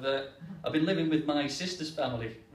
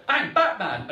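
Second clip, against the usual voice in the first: louder Batman growl; kid shouting Batman; 4 semitones higher, 6 dB louder, slower than usual. Retold or imitated. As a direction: jump out and yell it. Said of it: "jump out, shout".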